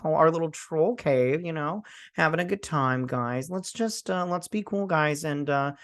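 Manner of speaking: lightly voiced laid-back troll; mock-friendly, easygoing troll chat; chatty troll. Troll asking captives to be cool, mock casual.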